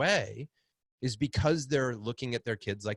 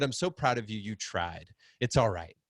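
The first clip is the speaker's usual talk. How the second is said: soft consoling. Retold or imitated. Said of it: "I said".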